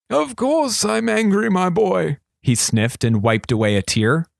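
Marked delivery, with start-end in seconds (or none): 0.1-2.2 lightly voiced old wizard, slow and higher; a hint of a sly old regent. A narrator's reading. Regent confiding to thief, lightly voiced old man.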